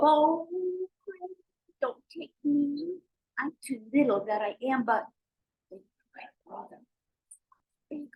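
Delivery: small goat pleading, fading to a whisper; pleading little goat. Acted. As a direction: beg in a tiny high voice.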